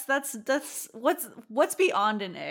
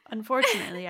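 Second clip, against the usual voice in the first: hushed dread; faster than usual. Real, not acted. Dreading the answer, sighing.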